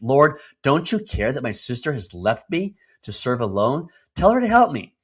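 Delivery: frustrated sister appeals to Jesus, voice jumping up; Martha's complaint. Retold or imitated.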